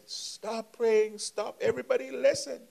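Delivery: high, loud cry to stop the praying; retold scream. Mother cries out to the praying crowd, high loud scream. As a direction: yell out over the room, pitch leaping up high. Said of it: "the lady is crying and she screams".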